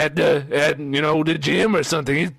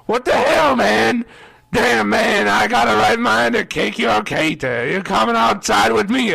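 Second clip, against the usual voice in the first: higher-pitched angry threat; indignant, imitated confrontation; pissed-off guy; 5 semitones higher than usual. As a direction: act out a huge guy picking a fight. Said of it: "he's pissed".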